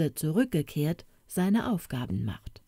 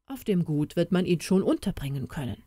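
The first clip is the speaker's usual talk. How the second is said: thinking aloud; faster than usual. Acted. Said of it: "sprach der Herr vor sich hin, laut denkend".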